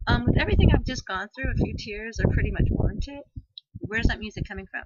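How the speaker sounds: loud, high and fast pleading; worked-up tearful plea; emotional insisting. Retold or imitated. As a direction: press the point through tears.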